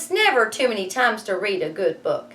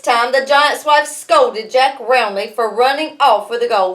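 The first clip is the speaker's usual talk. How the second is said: lively read-aloud storytelling; story narration; 4 semitones higher, 7 dB louder than usual. A narrator's reading. Teacher reading Jack and the Beanstalk to her class, lively narration.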